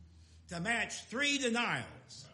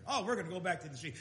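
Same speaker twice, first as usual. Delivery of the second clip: normal talking voice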